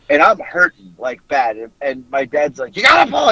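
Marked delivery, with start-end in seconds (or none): 2.7-3.3 high, loud mock-dad yell; retold yelling. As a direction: imitate a dad yelling from the passenger seat. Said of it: "He's yelling at me".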